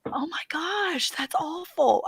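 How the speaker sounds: slow, hushed disbelief; drawn-out soft mock horror; horrified whisper. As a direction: whisper it, appalled. Retold horrified reaction to the video.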